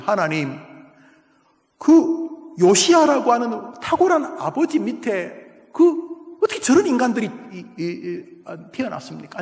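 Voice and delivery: mildly anguished protest to God; acted outcry. Habakkuk asking God why the wicked persecute, acted outcry. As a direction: question God in pained, halting disbelief. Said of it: "하박국이 막 절규합니다".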